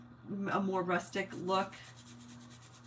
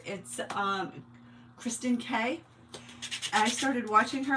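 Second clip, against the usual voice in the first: ordinary talk, nothing marked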